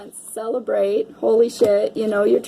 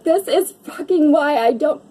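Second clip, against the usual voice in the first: mildly raised, exasperated quote with the swear; frustrated self-talk; 6 semitones higher than usual. Retold or imitated. Reader retelling what she told herself while emotional, mild exasperation. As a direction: grumble at herself, uncensored. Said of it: "I kept telling myself".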